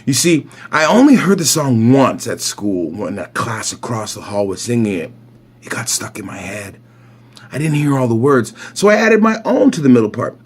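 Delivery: lively picture-book read-aloud; story narration. A narrator's reading. Reader telling a boy's morning routine, story narration. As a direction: read it clearly for young children.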